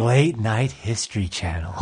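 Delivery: lightly voiced low announcer; mock promo announcer. Comic naming a new channel, low mock announcer.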